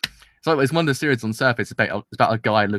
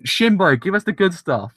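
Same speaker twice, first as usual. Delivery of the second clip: mock pleading call; 7 semitones higher, 4 dB louder, slower than usual. Fan calling director.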